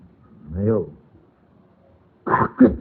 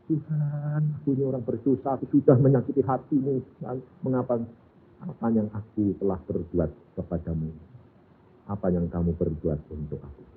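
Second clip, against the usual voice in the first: tearful confession; 4 dB quieter than usual. Retold or imitated. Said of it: "Nangis dia".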